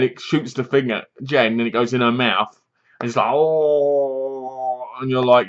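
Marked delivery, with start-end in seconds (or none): 3.3-4.9 long, held mock moan; comic drawn-out groan; imitated moan. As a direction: drag out one steady "oh". Imitating reaction as thing enters mouth.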